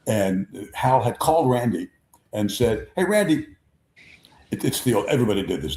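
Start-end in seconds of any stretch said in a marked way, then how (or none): 3.0-3.5 high sing-song "Hey"; Jerry Coleman's greeting. Retold or imitated. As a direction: call out like an old pal across the clubhouse. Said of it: "Jerry Coleman did it every time".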